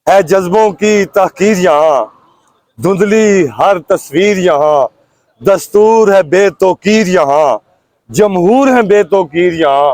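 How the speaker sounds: measured, declaimed Urdu verse with falling line ends; rhythmic protest poetry; poem recitation. Acted. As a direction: recite it line by line, pausing after each. Recites own political verse.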